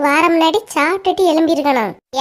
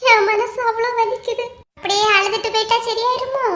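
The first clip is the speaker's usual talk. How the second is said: hurt complaint; 5 semitones higher than usual. Acted. Hurt woman complaining tearfully.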